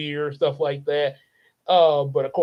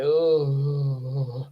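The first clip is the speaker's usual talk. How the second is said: stomach-ache groan; 4 semitones lower than usual. Retold or imitated. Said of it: "like when a person has a stomach ache".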